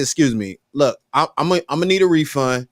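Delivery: calm correction, pitched low; a steady talking-to for the server. Retold or imitated. Customer lowers voice to lecture the young waiter, firm and calm. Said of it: "I said, "Young man".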